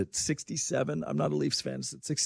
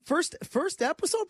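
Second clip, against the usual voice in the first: mock surprise; 10 semitones higher than usual. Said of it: "I'm like".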